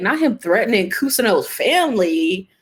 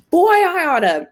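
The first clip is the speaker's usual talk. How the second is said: tag; 9 semitones higher, 5 dB louder than usual. Real, not acted. Outburst of anger at TV character.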